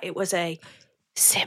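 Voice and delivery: hushed, soft ASMR whisper, murmured. Repeating the event's name to the other speaker, said like asmr. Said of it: "Shall I say it really like ASMR?".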